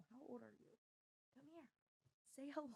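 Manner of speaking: high, soft voice for a puppy; soft high coaxing to her puppy; pet talk. Real, not acted. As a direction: coo at the dog to come over. Coos to the puppy.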